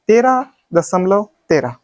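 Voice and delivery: second तेरह as one whole number; wrong reading demo. Shown as a demonstration. Teacher testing students with a mistake, demonstrated wrong reading. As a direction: read the last तेरह as a single number. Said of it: "गलत है?".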